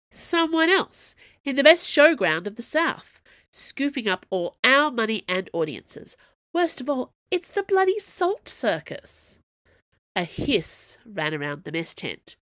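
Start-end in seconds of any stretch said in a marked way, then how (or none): 0.1-9.4 high-pitched aggrieved rant; wailing indignation, voice pushed up; indignant outburst. A narrator's reading. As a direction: climb higher in outrage at the rivals. Finn's outburst about the rival circus.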